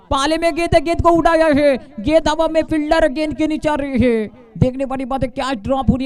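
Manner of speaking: high, tense call as the ball hangs; excited cricket commentary. Real, not acted. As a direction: call the catch chance eagerly. Ball in the air, catch chance.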